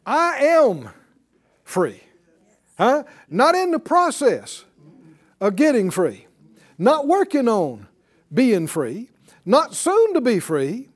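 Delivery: high, loud climb to a peak; preaching with slow build. Acted. Preacher pressing the church toward a declaration, high and loud. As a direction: drive each not home, then I am.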